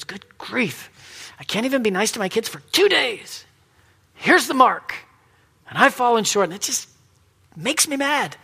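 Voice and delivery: mild self-directed anger, pitch climbing; frustrated anger. Acted. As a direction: act out being fed up with yourself. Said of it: "if it wasn't anger".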